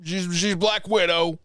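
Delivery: lightly voiced movie hero giving advice; Hawkeye impression. Host doing Hawkeye for his co-host, lightly voiced. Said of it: "my best Hawkeye impression".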